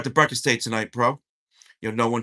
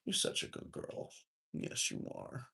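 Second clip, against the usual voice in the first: talking to a dog; 15 dB quieter than usual. Real, not acted. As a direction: coo gently to the puppy. Cooing to the pet.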